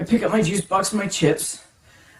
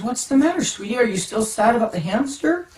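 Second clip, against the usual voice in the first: concerned mom; 5 semitones higher than usual. Retold or imitated. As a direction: lightly voice a mom checking on her child. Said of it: "my mom looks at me and says".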